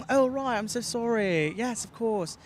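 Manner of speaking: slow, light British accent. Shown as a demonstration. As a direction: apologise like a polite Brit, slowly. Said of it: "Do British?".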